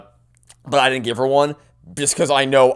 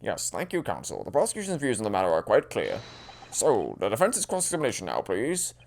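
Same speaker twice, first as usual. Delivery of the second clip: soft, low judge voice; hushed, formal judicial tone; courtroom judge; 3 semitones lower, 10 dB quieter than usual. Acted. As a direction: address counsel quietly from the bench. Voices the judge addressing counsel.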